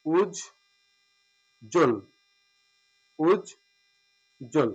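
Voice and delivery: উজ্জ্বল drawn out very slowly, ending ওন; slow demo pronunciation. Shown as a demonstration. Teacher modelling উজ্জ্বল slowly for students. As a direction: stretch উজ্জ্বল syllable by syllable. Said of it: "ওকার হবে, উজ্জ্বল".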